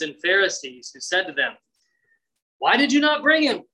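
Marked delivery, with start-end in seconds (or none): 2.6-3.6 higher, louder indignant question; angry demand. Retold or imitated. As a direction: scold the officers for coming back empty. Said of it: "They're mad".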